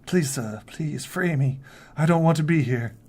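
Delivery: lightly voiced pleading boy; young boy. Captive boy begs to be freed, mild pleading. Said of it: "He's a young boy".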